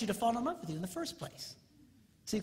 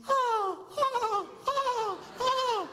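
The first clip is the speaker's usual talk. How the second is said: high rising thrilled oh-oh; swooning delight; 3 dB louder, much slower than usual. Retold or imitated. New girlfriend thrilled by his kindness, cooing high. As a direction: coo like a smitten girlfriend.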